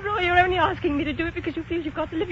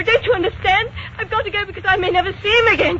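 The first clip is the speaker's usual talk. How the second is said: fast, raised and pressing; urgent plea; 3 semitones higher, faster than usual. Acted. Woman pleading with her friend Kitty, fast and urgent. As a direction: rush it out, desperate to be understood.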